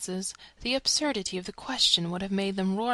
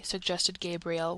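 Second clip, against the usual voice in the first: ordinary delivery, nothing marked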